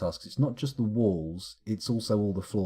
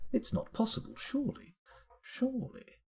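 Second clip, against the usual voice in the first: incredulous whisper; 13 semitones higher, 6 dB quieter than usual. Pretend.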